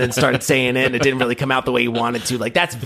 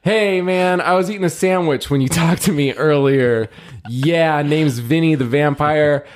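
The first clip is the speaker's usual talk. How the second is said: lightly voiced greasy vampire; slow lazy vampire drawl; slower than usual. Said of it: "your vampire voice".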